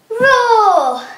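loud lion roar. Shown as a demonstration. Teacher counting the push-ups with a loud lion roar. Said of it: "and then you go roar".

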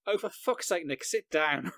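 snapped, exasperated at a flustered colleague; exasperated outburst. Retold or imitated. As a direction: blurt it out in frustration. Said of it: "lip read me going".

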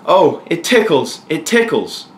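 high-pitched, drawn-out exclamation; ticklish cry. Acted. Daniel being nibbled by a lion, crying out high. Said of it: "cried Daniel".

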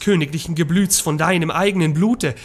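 forceful, declaimed summons; solemn invocation. A narrator's reading. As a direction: invoke the god with mounting force, settling at the close. Nachtigall's invocation to a god. (feierliche, kraftvolle Beschwörung)

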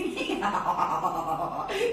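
stuttering doggy cackle; dog noise. Acted. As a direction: pant out a dog's laughing reaction. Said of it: "And the dog is".

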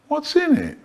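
high choppy clipped question; spliced words. Acted. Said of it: "sentence mixing".

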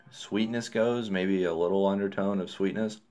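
talking around pipe stem; pipe in mouth. Real, not acted. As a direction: lips gripping pipe. Seen 1: Pipe stem held between lips throughout the labelled words.

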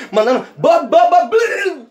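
motorbike engine noise. Retold or imitated.

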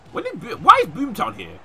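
high, loud, stammering protest; worked-up disbelief. Real, not acted. Gamer baffled by Boomtown turning up, worked-up disbelief. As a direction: pitch it right up in baffled outrage. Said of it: "I'm getting so worked up".

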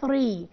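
"ثري" with tongue on the teeth; careful "three" for "ثري"; correct TH. Shown as a demonstration. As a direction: blow a TH to begin "ثري". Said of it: "على اسناني كده اقول".

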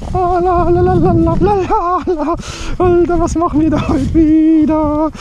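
high goblin voice; sing-song little goblin; kobold voice. Acted. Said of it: "Ich hab die Koboldstimme wieder drauf".

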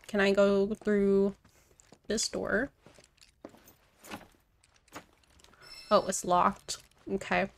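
talking while chewing gum. Real, not acted. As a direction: chew gum as you speak. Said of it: "I'm sorry, I'm chewing gum right now".

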